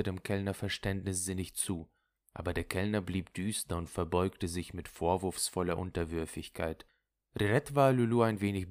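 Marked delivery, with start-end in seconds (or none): none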